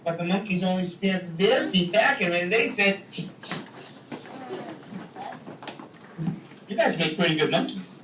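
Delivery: lively read-aloud story voice, big pitch swings; storytelling for kids. A narrator's reading. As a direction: tell it like a picture book to a class. Reads story to children.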